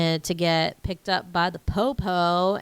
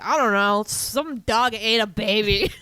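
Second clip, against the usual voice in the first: mock answer, laughing; 4 dB louder than usual. Bystanders answering the parents, laughing mock report. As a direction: drag it out and crack up.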